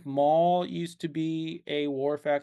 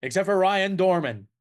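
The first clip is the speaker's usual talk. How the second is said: louder, higher fifties Brooklyn mogul pitch; Brooklyn film-producer accent; 4 semitones higher, 4 dB louder than usual. Acted. Film producer promoting his star, in a brash Brooklyn accent. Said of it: "an accent".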